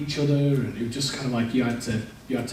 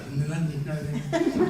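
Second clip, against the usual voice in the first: garbled, wordless tongue-tied babble; swollen-tongue garble. Retold or imitated. Talking to everybody after a tongue piercing, swollen-tongue garble. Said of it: "'cause my tongue was all swollen".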